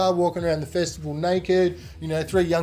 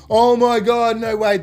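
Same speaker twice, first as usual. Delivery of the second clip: much higher, louder shocked cry; shocked friends; 8 semitones higher, 7 dB louder than usual. Retold or imitated. Friends in the water seeing the leech, high shocked cry. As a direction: gasp it out in disbelief. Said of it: "They both start freaking out".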